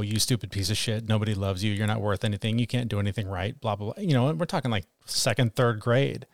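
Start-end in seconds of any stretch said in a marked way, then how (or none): 0.0-4.0 inner critic voice. Retold or imitated. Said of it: "look in the mirror and go".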